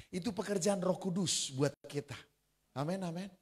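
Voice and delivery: ordinary delivery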